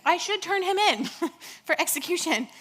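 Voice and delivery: a petty neighbour who smells reward money; greedy townsperson. Retold or imitated. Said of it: "now being like".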